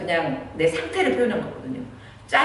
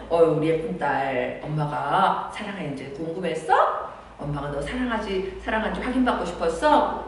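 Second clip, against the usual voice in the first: tender mother. Retold or imitated. Mother comforts daughter tenderly. (천천히 다정하게 달래는 엄마)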